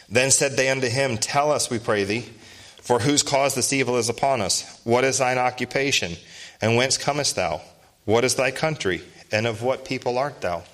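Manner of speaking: measured, solemn Bible reading; scripture reading. Acted. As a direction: read it out like King James scripture. Preacher reads scripture aloud.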